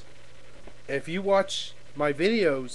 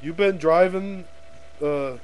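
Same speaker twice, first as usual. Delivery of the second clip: bullying cop; 4 semitones higher than usual. Acted. Cop asking a driver for the license, pushy. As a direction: put on a pushy traffic officer. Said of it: "one of those big prick cops".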